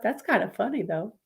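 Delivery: talking mid-yawn. Real, not acted. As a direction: say it through a yawn. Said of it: "I'm so sorry for yawning".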